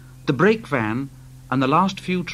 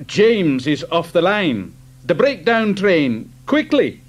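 urgent; 2 semitones higher, 5 dB louder than usual. Acted. Man running, urgent call.

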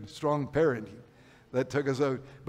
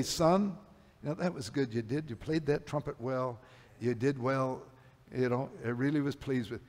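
understated, hushed fatherly approval; imagined fatherly praise; 6 dB quieter than usual. Retold or imitated. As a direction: praise a son quietly and tenderly.

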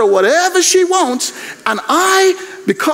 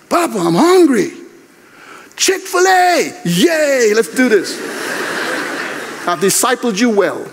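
granddaughter asking. Retold or imitated. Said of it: "granddaughter comes and says".

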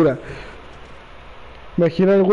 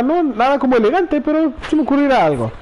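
higher, light mock Tifa voice; lightly voiced cheerful Tifa; voicing Tifa; 6 semitones higher than usual. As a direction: read Tifa's line a bit higher and brighter. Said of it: "Y dice Tifa".

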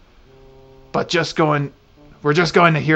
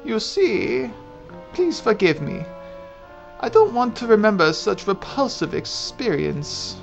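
put-on old lady voice; 4 semitones higher than usual. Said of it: "I get to do an old lady voice".

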